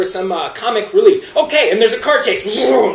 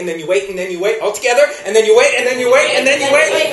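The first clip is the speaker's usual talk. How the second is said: building wait. Acted. Repeated waiting builds up.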